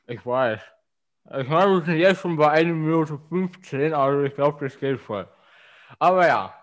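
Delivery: talking around a cork in mouth. Real, not acted. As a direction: speak with a cork between the teeth. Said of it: "mit dem Korken im Mund zu sprechen".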